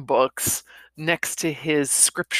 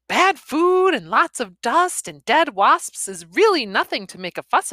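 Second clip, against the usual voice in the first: higher, playful wife; teasing young wife; 6 semitones higher than usual. Acted. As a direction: tease him out of complaining. Griselda teasing, voiced high.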